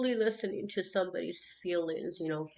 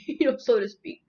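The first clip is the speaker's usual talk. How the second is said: real chuckle through the words, higher and louder; laughing; 5 semitones higher, 8 dB louder than usual. Real, not acted. Vlogger qualifying her own phrase, laughing. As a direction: laugh your way through the aside.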